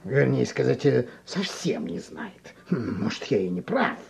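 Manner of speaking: put-on soft, thoughtful old teacher; gently hint at the truth; wise mentor.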